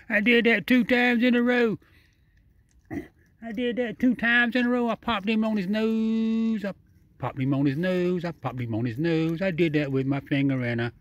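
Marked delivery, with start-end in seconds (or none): 0.1-6.7 high, excited laughing brag; gleeful, pitched up after a laugh; giggly delight. Real, not acted. Laughing after popping its nose.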